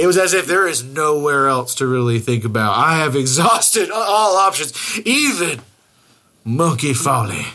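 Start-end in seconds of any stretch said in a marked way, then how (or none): 2.8-7.5 slow, weary and beaten; defeated. Retold or imitated. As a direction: sigh it out like all hope is gone. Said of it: "the way he said it was so defeated".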